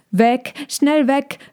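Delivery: high, slow urgent cry; urgent call. Acted. Young dragon bulls calling to fly away, urgent. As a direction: urge them to flee. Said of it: "riefen die jungen Drachenbullen".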